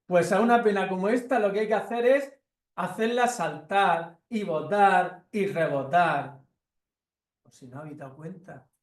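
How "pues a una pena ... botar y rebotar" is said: cat voice. Acted. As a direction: make the pain jump and bounce. The cat answers.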